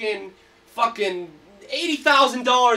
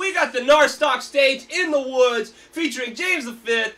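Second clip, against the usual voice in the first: festival hype shout; 4 semitones higher, 5 dB louder than usual. Real, not acted. Host announcing festival lineup.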